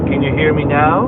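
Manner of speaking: muffled, hollow fishbowl sound; inside a fishbowl. Real, not acted. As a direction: voice like it's underwater in a bowl. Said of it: "Sounds like you're a fishbowl".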